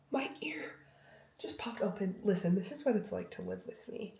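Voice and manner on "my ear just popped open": hushed. Real, not acted. Ear pops, hushed.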